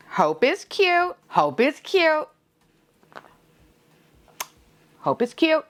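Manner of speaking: high, slow insistent chant; strained-cheerful high pitch; convincing herself. Real, not acted. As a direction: repeat it high, as if talking yourself into it. Consoling herself over the missed secret.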